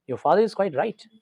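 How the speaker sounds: pleased. Retold or imitated. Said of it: "खुश होकर के बोलता है".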